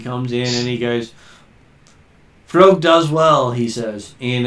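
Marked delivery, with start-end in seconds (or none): 2.5-3.5 slow Midwestern drawl; a lightly done Midwestern accent. Acted. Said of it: "Midwestern accent".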